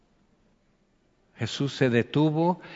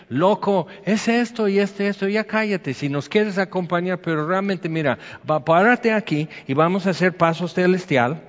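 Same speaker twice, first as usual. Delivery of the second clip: higher-pitched exasperated telling-off; mock annoyed scolding, voice raised in pitch; impatient hushing; 4 semitones higher than usual. Acted crowd hushing the blind beggar.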